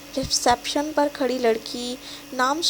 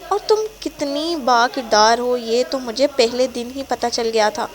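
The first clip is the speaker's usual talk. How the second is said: angry. Acted. Boyfriend insulting her character, angry. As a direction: lash out with contempt. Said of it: "وہ غصے سے کہتا ہے".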